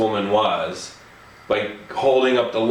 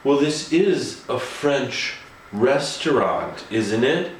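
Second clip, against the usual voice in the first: snooty quote; slower than usual. Retold or imitated. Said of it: "she said".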